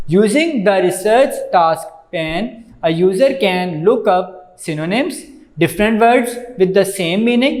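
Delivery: very slow, word-by-word reading from the book; slow textbook reading. Acted. Teacher reading the book aloud to students, slow dictation.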